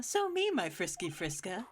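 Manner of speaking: playful. Acted. Teasing Franziska playfully.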